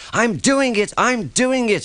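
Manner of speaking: high, breathless engine push; panting. A narrator's reading. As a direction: pant it out mid-climb. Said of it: "he panted".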